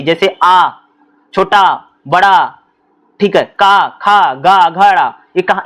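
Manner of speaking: आ, का, खा, गा sounded from the throat; teacher sounding out letters; throat sounds demo. Shown as a demonstration. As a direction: enunciate each guttural clearly. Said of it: "ये ध्वनियां कहाँ से निकलती हैं".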